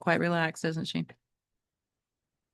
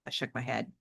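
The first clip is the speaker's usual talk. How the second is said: reading a novel aloud to the class; teacher reading a chapter book to students; story narration; 3 dB louder than usual. Acted. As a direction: tell it like a read-aloud storyteller.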